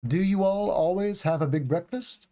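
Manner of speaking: rising question with DO at the start; "breakfast" lifted into a question. Shown as a demonstration. Teacher models the full sentence for learners, question tone. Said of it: "it's a question tone".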